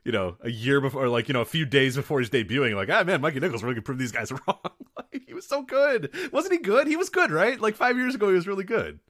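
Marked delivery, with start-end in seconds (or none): 2.9-9.0 very high, laughing self-parody; high-pitched mock insistence through laughter; mock hopeful fans. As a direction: squeal it like deluded, pleading fans. Mocking their own past hopeful takes.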